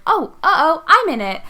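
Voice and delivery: sudden high, loud mock alarm. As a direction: play the startled realisation. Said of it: "and then being like".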